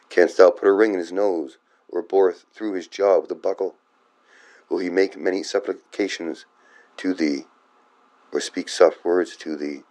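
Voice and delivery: measured reading of archaic verse; formal Bible recitation; scripture reading. A narrator's reading. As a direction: read it out verse by verse, pausing between phrases. Reads scripture aloud.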